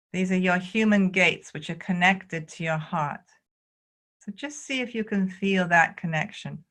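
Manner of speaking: calm, measured guiding with long pauses; spacious meditation instruction; guided qigong meditation. Real, not acted. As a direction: lead them gently through each movement, unhurried.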